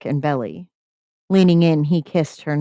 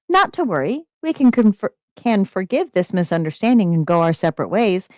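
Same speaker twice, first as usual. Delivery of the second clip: prim lady voice; 4 semitones higher than usual. Acted. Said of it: "Rose articulated".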